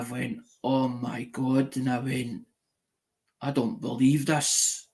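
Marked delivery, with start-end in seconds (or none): 0.6-1.8 soft, slow, hushed disbelief; tearfully overwhelmed. Retold or imitated. Recalling happy tears at an unexpected gift, quiet and overwhelmed. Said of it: "the tears were ready to roll". 3.4-4.9 soft, slow disbelief; tearfully overwhelmed. Retold or imitated. Recalling the surprise money to a friend, softly stunned. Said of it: "the tears were ready to roll".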